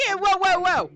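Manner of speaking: high, loud squeaky whoa; mocking rabbit whoa. Rabbits mocking the player's calming gesture. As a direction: throw the whoa back mockingly.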